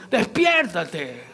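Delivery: despiértate stretched very slowly through a laugh; drawn-out laughing wake-up. Retold or imitated. Sailors shaking sleeping Jonah, slow laughing call. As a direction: pull despiértate out long, chuckling. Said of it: "Imagínate que lo movieron".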